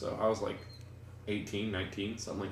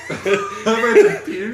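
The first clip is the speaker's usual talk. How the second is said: mock loud; 9 semitones higher, 8 dB louder than usual. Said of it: "repeating friend's line".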